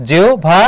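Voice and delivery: জিহ্বা said 'jiu-bha'; হ-এর স্থলে ও. Shown as a demonstration. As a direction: split জিহ্বা as jio, then bha. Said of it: "তাহলে এখানে দেখো কি হবে". (জিহ্বা ভেঙে 'জিও-ভা' উচ্চারণ)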